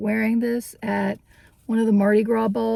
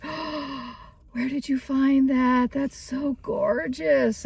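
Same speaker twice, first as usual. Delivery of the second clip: impressed cashier lady; 2 semitones higher, 3 dB quieter, slower than usual. Retold or imitated. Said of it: "she was like".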